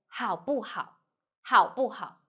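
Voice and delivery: 好不好 with a quick, unstressed 不; light, short 不. Shown as a demonstration. Teacher models an example, 好不好 with 不 light and short. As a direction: pass lightly over 不 in 好不好. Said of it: "read like light and short".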